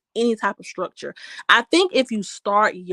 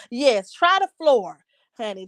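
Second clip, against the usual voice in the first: sassy advice. Real, not acted. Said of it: "something about that floor".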